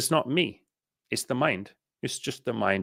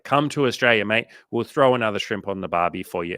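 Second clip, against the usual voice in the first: mock Australian ad; 4 dB louder than usual. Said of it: "a tourism ad where they're talking about".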